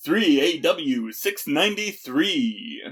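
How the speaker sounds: on-air radio broadcaster announcer voice. Guest speaking to a podcast host, in a radio announcer voice. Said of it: "my radio announcer voice".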